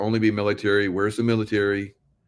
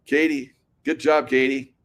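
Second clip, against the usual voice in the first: sarcastic praise; 4 semitones higher than usual. Pretend. Sarcastic praise to Katie Hobbs.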